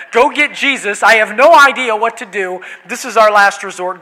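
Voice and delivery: loud, urgent plea from desperate disciples; acted panic. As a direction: play frightened men out of options.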